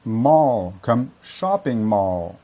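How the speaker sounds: mall said mɔl with a dark L; American dark L. Shown as a demonstration. Teacher models shopping mall with a dark L. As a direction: round the vowel in mall. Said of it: "Ou dans ce cas-ci".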